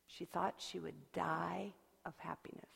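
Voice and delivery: hushed breathy whisper. A narrator's reading. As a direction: breathe it like a secret. Narrator hushes at her joy.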